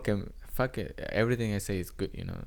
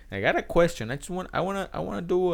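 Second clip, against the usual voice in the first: repeating the question; 10 semitones higher, 5 dB louder than usual. Retold or imitated. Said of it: "I repeated the question".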